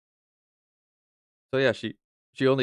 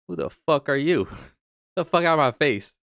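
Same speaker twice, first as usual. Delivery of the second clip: higher, incredulous mock outburst; indignant retort; 5 semitones higher than usual. Streamer answering people who shrug off prize money, indignant. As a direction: snap back as if offended. Acts out own angry retort.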